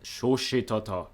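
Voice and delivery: slow, lightly mock-Japanese pronunciation; Japanese-like accent. Real, not acted. Vlogger retries a Salvadoran city's name, Japanese-like accent. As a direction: say it slowly, as if it were Japanese. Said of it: "saying it like it's Japanese".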